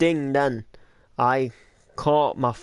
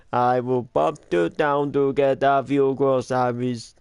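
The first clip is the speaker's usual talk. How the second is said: robot voice. Retold or imitated. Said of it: "It sounds like a robot".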